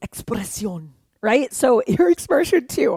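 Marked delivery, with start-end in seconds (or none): 0.1-0.9 Spanish word. Shown as a demonstration. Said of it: "I don't even speak Spanish".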